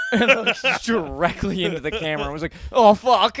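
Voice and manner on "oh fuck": sudden loud high oh fuck; caught-out gasp of a curse; blurting out a panicked curse; startled curse. Retold or imitated. Looked into camera, startled curse.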